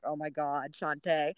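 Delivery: low, hushed oh my God; quiet embarrassment. Retold or imitated. Embarrassed runner hushing her friend, low. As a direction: mutter in embarrassment. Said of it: "I'm like".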